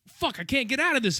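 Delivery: high panicked mock cry of a trapped man; frantic suspect. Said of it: "he's like".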